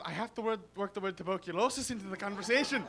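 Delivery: put-on Irish accent, fretting. Accent addict trying to slip the word in, Irish accent. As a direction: keep up an Irish lilt. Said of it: "I can't give up the accent".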